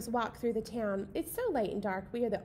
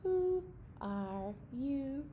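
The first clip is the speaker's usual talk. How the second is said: owl hoots; 4 semitones higher, much slower than usual. Pretend. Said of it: "The owl in the tree says".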